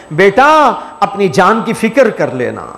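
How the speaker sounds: mildly tender, retold fatherly counsel; tender fatherly plea. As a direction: gently urge a son, letting the voice sink. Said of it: "شفقت و مہربانی کے ساتھ میں کہتا ہے".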